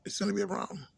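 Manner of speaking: emphatic repeat. Real, not acted. Complaining to viewers about police, emphatic repeat. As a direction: drive the warning home.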